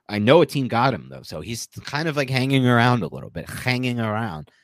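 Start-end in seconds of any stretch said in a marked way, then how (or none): 3.5-4.5 a slow, light hint of a Russian gangster accent; Teddy KGB impression. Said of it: "as K G B would say".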